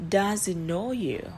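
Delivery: Does he know you? slow with a rise at the end; rising yes-no question. Shown as a demonstration. Teacher modelling a yes-no question, rising tune. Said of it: "tôi sẽ đọc mẫu đây".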